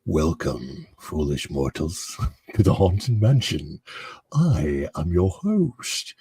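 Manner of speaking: deep, slow, booming haunted host voice; spooky ride narrator. Retold or imitated. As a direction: welcome the guests like a ghostly host. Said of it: "If you need me to narrate".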